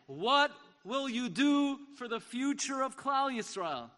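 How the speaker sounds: put-on a rabbi's fervent cry to young students; ringing charge. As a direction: hurl the question at them. Rabbi repeating his charge.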